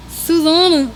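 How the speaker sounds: a hesitant try at an Australian accent; first shaky stab at an Australian accent. Shown as a demonstration. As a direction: attempt Susanna in an Aussie accent. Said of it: "No, that doesn't sound right".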